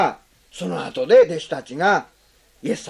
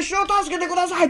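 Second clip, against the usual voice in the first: a raised, earnest plea; earnest cry for help; 9 semitones higher than usual. Shown as a demonstration. Preacher voicing Peter sinking, earnest plea. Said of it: "後の方がずっと真剣ですね".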